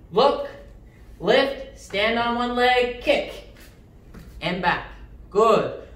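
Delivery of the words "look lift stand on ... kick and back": sharp martial arts commands. Shown as a demonstration. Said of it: "Ready? Right leg first".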